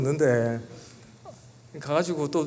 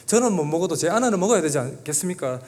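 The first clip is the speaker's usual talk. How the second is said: protesting to God; 3 semitones higher, 4 dB louder than usual. Retold or imitated. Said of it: "이렇게 따졌어요".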